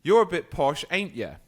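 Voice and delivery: loud, cheeky imitation of a local; teasing local customer. Customer needling the posh drive-thru worker, mock teasing. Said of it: "They would say".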